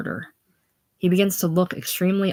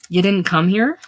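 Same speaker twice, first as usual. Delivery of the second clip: droll amazement; 3 semitones higher, 5 dB louder than usual. A narrator's reading. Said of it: "with droll amazement".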